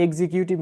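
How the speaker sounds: এক্সিকিউটিভ said as "ek-si-kiu-tiv"; common mispronunciation. Shown as a demonstration. Teacher showing the class the common error, এক্সিকিউটিভ as "ek-si-kiu-tiv". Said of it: "But it's wrong".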